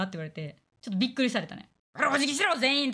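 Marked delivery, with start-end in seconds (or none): 1.9-2.9 mock bossy order.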